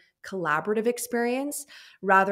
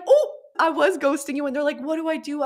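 high, loud mock panic; mock freak-out; 9 semitones higher, 7 dB louder than usual. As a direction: act the client panicking. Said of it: "freaking out".

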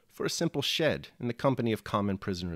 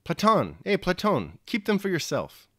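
higher, louder squeaky cry; squeaky shout; 8 semitones higher, 4 dB louder than usual. A narrator's reading. Frenchman to Platon giving back the scraps, squeaky shout. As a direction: blurt it out, blushing, in a squeak. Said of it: "shouted in a squeaky voice".

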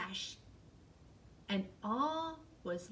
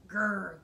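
growl; 4 semitones lower, 4 dB louder than usual. Acted. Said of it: "growled Bear".

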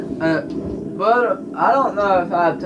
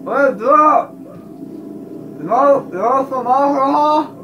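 mock offer; 8 semitones higher than usual. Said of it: "we'll just be like".

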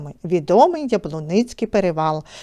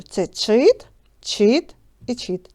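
чит said slowly and separately each time; root stressed slowly; slower than usual. Shown as a demonstration. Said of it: "Позначимо дужкою". (повільно виділяє корінь чит)

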